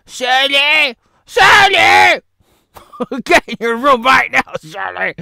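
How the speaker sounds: scolding parent shouting the name Shirley; parent yelling. Acted. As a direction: yell her into her room.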